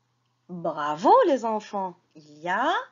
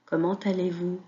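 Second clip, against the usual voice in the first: reading lesson voice. Acted. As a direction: sound out each syllable for little ones. Teacher reading lesson to children.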